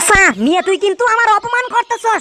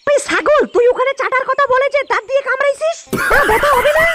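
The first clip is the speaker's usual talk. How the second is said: angry yell. Acted. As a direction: yell it at him, half laughing. Angry complaint at partner.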